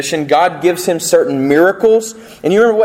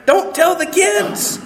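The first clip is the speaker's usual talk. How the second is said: mock hushed aside; 14 semitones higher, slower than usual.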